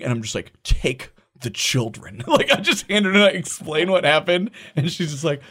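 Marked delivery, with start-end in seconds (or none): 0.6-2.2 drained. Retold or imitated. Drained dad hands over the kids.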